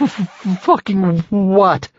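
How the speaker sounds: high, slow, stuttering from cold; chattering teeth. Acted. Freezing in water, teeth chattering.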